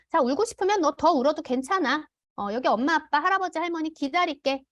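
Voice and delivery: patient reassurance. Shown as a demonstration. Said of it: "이런 식으로 아이가 진정될 때까지".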